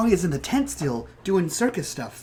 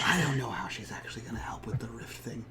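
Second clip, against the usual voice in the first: soft whisper; leaning in to whisper; 7 semitones lower, 10 dB quieter than usual. Real, not acted. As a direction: keep it hushed, guards nearby. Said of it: "I was using my whisper voice".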